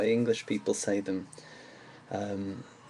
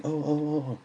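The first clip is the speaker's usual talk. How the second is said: higher-pitched, anxious little string of ohs; hammed-up worried "oh"s; mock fretting; 5 semitones higher than usual. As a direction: act out fretting over looming catastrophes. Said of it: "getting worried and anxious".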